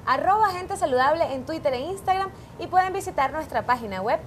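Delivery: upbeat scripted intro with lilting pitch; show-opener announcer. Acted. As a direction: greet the audience like a TV health show host. Presenter opens the show with scripted welcome.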